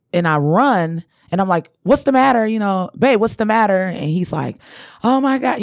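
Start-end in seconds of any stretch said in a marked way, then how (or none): 1.8-3.8 raised, mildly alarmed retold question. Retold rush toward screaming partner. 5.0-5.6 higher-pitched imitation of panic; retold panic. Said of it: "he's just panicking".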